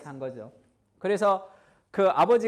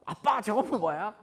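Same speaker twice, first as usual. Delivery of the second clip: put-on child asking; 4 semitones higher, slower than usual. Child voiced in retold memory.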